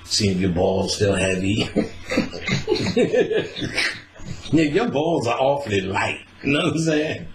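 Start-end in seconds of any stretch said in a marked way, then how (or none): 1.6-4.0 long high breathy laugh; high laughter. Real, not acted. Laughing at his balls joke, high breathy laughter. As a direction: crack up hard.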